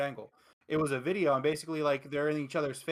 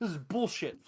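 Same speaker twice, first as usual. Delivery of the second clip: furious, fed-up, angry and disgusted outburst; 3 semitones higher than usual. Joking about a viewer who flips the table: imitating angry outburst. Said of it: "Flipping the table over".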